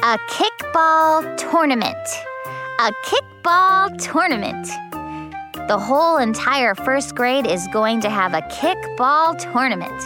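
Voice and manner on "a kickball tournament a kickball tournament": put-on high, excited child exclaiming; bursting with excitement; thrilled announcement. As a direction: announce it like huge news, pitched way up.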